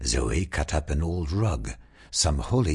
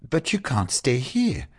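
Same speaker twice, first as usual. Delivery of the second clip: yelping; 9 semitones higher than usual. Acted. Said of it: "yelped Zoe".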